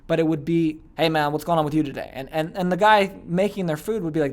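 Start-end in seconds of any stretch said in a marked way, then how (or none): 1.0-2.1 casual question with "today" left unlifted; uncaring, no uptone. Retold or imitated. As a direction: ask as if the answer doesn't matter. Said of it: "doesn't really care about the answer".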